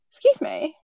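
retold outraged complaint to a rude passer-by; indignant. Acting out reproach to runners.

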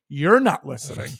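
sarcastic parroting of the agent; mock her line right back at her; mocking echo. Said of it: "I said".

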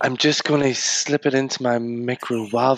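lightly sultry TV-cook voice; Nigella. Retold or imitated. Joining in the impression of a TV cook, lightly sultry. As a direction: play at sultry, lingering on the odd word. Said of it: "like, a really sultry voice".

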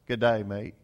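a light Australian accent, lightly put on. Preacher imitating the Australian cowboy, in a light Australian accent. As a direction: toss off a quick Australian greeting. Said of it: "the Australian accent is awesome".

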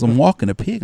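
Texas twang. Retold or imitated. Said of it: "this woman with all this twang".

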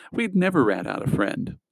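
high-pitched, mildly wounded protest; offended. A narrator's reading. Friend insisting on his loyalty, mildly offended. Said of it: "Newsbaum was offended".

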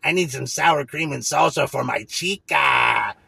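hammed-up stoned coworker, drawn out; stoned coworker calling for sour cream, slow mock; mock stoner. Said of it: "other guy's probably like".

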